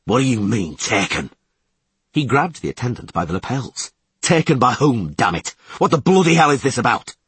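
loud, furious demand; cold fury. Acted. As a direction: demand it through anger. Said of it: "cold fury gripping him".

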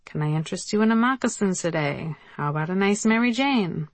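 put-on light Yiddish accent, salesman patter; a hint of a Yiddish shoe salesman. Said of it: "who would inquire in a thick Yiddish accent".

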